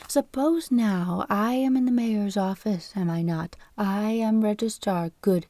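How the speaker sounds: a hint of a fussy registrar explaining; falsetto voice. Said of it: "in a falsetto voice".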